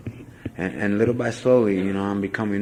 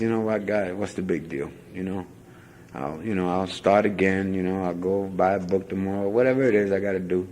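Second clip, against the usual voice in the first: quiet prayer; 2 semitones lower, 4 dB quieter than usual. Retold or imitated.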